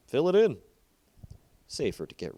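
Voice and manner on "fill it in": loud, higher, blunt command; curt order. Acted. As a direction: end the matter with a flat order. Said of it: "said simply".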